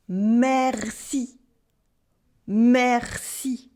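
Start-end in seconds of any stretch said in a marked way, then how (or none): none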